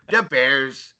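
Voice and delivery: half-hearted stab at a Chicago accent; bad Chicago accent. Shown as a demonstration. Co-host attempting the accent he admits he's terrible at, bad Chicago accent. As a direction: try a Chicago accent, badly. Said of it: "a Chicago accent, please?".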